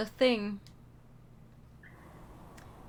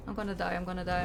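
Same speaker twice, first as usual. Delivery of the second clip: terrified gibbering; 3 semitones lower, faster than usual. Real, not acted. Repeated panic, building.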